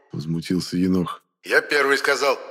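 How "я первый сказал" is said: higher, peevish claim on первый; петулантно: Я первый сказал; grumpy exclaim. A narrator's reading. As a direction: squabble like a child. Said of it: "сварливо воскликнул".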